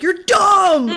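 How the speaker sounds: high, loud, laughing insult; mock yell. Husband yelling at the dinner guests glued to the TV, laughing. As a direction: blurt it out as a laughing outburst.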